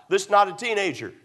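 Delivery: preacher's emphatic restatement, leaning on "not"; emphatic repetition. Real, not acted. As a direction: drive home the word "not". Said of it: "Let me emphasize".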